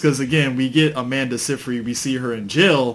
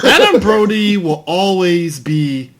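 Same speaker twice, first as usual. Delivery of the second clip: laughing; 5 semitones higher, 5 dB louder, slower than usual. Real, not acted. Laughing through the joke.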